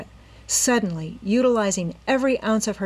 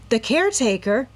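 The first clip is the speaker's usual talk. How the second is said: high, louder shocked question; horrified gasp; 5 semitones higher, 5 dB louder than usual. A narrator's reading. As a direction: gasp it in horror. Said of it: "Nancy gasped in horror".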